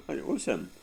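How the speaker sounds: high, loud tattletale; a high, loud telling-on; snitching brother. Retold or imitated. Brother blames him.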